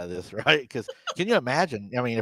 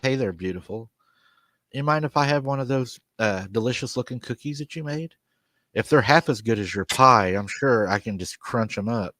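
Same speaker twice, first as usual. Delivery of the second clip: mock flirty. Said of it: "and he winks at her, and he smiles".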